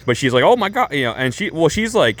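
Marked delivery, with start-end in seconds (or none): 0.4-0.9 high-pitched imitation of shocked hurt; mock crocodile tears. Tifa acting hurt before the onlookers, mock crocodile tears. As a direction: put on a high, wounded gasp of words. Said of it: "crocodile tears".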